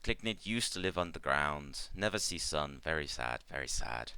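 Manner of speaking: halting broken English, sinking into mild sadness; Ikmar remembering. Acted. Ikmar telling the party about old nests, mildly sad. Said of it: "she kinda, like, nods and goes".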